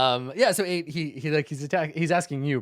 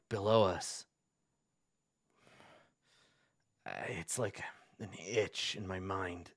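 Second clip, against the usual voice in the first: hesitant, lightly voiced confession; troubled cleric. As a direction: confide haltingly, with a touch of unease.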